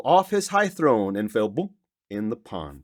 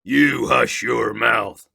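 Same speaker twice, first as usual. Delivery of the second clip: slow, louder howl of a command; 6 dB louder, much slower than usual. Acted. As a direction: stretch out the order to shut him up. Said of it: "howled the mighty King Yertle".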